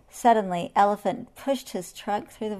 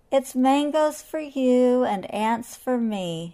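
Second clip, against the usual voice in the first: cheerful anteater voice; 4 semitones higher, 4 dB louder, slower than usual. Acted. Anteater cheerful before his dance.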